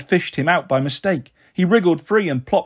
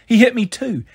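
heated, pitched up; angry hiss; 6 semitones higher than usual. A narrator's reading. Sister telling brother why dad is gone, angry. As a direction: insist crossly, rising. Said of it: "I hissed".

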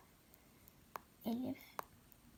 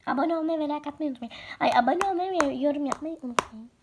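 upbeat outro; 6 dB louder, faster than usual. Real, not acted. Outro call to subscribe.

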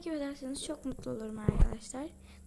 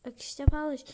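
'Akışta paylaş' said louder and firmer; louder repeat; 5 dB louder than usual. Shown as a demonstration. Vlogger repeats 'Akışta paylaş' louder.

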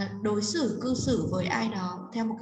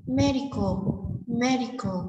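"Medical" with a strong opening MED; stress on first syllable; 3 dB louder than usual. Shown as a demonstration. Teacher models first-syllable stress for students, emphatic "Medical". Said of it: "trọng âm số một".

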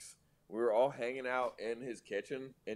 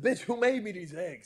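Guy Fieri impression; 11 semitones higher, 6 dB louder than usual. Guy Fieri bit continues.

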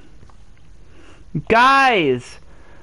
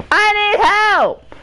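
high-pitched, exasperated whine; helpless high wail; desperate outburst; 11 semitones higher than usual. Real, not acted. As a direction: cry out high, at wit's end. Stuck gamer begging viewers.

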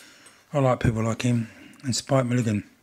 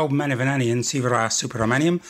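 alter ego name; 5 dB louder than usual. Acted. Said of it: "he is my alter ego".

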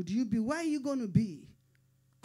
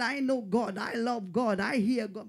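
mocking pretender; 5 dB louder than usual. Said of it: "You pretend".

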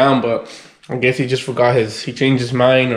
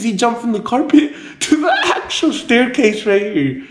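amused; 8 semitones higher than usual. Real, not acted. Laughing over dog's antics on camera.

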